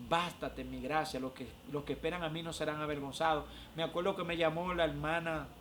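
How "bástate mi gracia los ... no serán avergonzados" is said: low, measured divine voice; voice of God. Retold or imitated. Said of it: "oí esa voz que me dijo".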